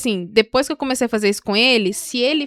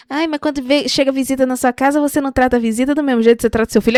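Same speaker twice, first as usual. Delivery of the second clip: objecting listeners; 3 semitones higher, faster than usual. Retold or imitated. Mimicking listeners who compare guests with children, mock complaint. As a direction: lightly imitate a nagging objection. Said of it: "Vocês que ficam".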